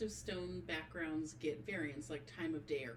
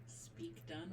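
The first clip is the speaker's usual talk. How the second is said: soft whispered echo; quiet; 6 dB quieter than usual. Real, not acted. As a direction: whisper it back, barely voiced. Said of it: "Very quiet".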